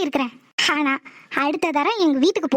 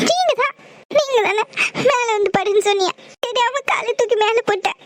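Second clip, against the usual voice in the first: tearful apology; 4 semitones higher than usual. Acted. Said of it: "அதுக்கு எதுக்கு அழற?".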